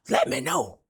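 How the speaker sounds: high-pitched call. Real, not acted. Sing-out appeal to viewers.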